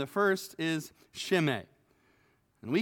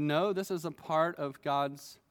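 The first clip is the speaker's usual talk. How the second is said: softer, lower, calm acceptance; restrained reply; 3 semitones lower, 4 dB quieter than usual. Retold or imitated. David answers his soldier, calm and restrained. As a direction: speak it quietly, humbly accepting. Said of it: "showed a lot of restraint and said".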